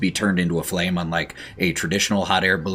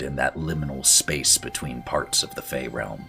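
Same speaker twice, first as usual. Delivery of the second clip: game master scene narration; 2 semitones lower, 4 dB quieter than usual. A narrator's reading. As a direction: paint the landscape gently. GM describes the scene.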